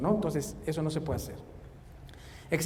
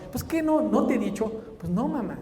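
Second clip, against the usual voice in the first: mock exasperated mom; 5 semitones higher than usual. Acted mother and child exchange.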